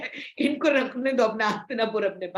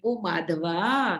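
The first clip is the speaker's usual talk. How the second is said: slow, lower, sugary appeal; lovingly; 4 semitones lower, much slower than usual. Acted. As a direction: coax him gently and slowly. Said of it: "बड़े प्यार से बोलते हैं".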